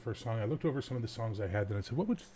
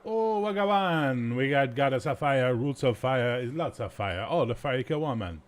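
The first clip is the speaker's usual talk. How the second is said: loud, hammed-up Jamaican accent, higher at the start; horrible Jamaican accent; 3 semitones higher, 5 dB louder than usual. Radio host back-announcing the reggae song, in a mock Jamaican accent. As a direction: put on a bad, exaggerated Jamaican accent. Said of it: "enough of my horrible Jamaican accent".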